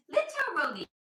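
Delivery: exaggerated swooping "literally"; influencer affectation. Shown as a demonstration. Telling about a friend, hammed-up influencer affectation. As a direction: overdo "literally" like an insufferable influencer. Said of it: "I'm intolerable sometimes".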